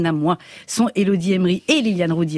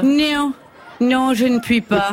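laughing; 4 semitones higher, slower than usual. Acted. Princess role laughing mid-sketch.

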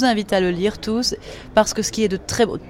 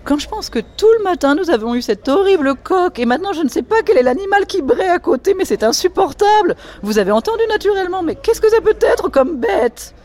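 high, loud affected society lady; high, loud voice of an affected Parisian lady complaining about the noises; Diane's voice; 10 semitones higher, 4 dB louder than usual. Acted. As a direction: play the shrill grande dame fussing at breakfast. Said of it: "elle est en robe de chambre à ramage".

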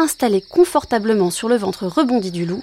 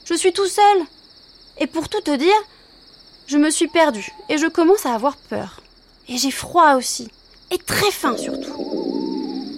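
put-on higher, childlike wolf pup; a lost little wolf, pitched up; 5 semitones higher than usual.

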